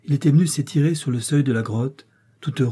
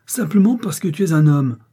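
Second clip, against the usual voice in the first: high, louder, emphatic retort; exasperated retort; 6 semitones higher, 5 dB louder than usual. A narrator's reading. Hollander telling the professor why, exasperated retort. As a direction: throw the answer back, raised and exasperated. Exasperated man justifies his threat.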